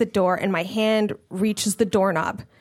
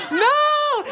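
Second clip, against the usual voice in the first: laughing protest. Retold or imitated. Horrified reaction while laughing.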